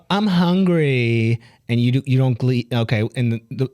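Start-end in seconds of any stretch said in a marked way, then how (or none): 0.1-1.4 put-on whiny girlfriend. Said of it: "where you're like".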